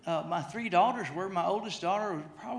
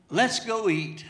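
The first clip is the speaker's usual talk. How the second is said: laughing quote; 2 semitones higher, 4 dB louder, slower than usual. Retold or imitated. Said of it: "solution that every man would think of".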